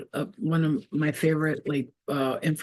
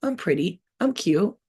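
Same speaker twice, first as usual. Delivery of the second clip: gushing self-praise; 5 semitones higher than usual. Retold or imitated. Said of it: "I'm like".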